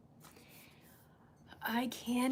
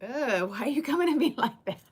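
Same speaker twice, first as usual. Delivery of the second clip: offended; 4 semitones higher, 4 dB louder, faster than usual. Retold or imitated. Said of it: "the other person takes it as difference".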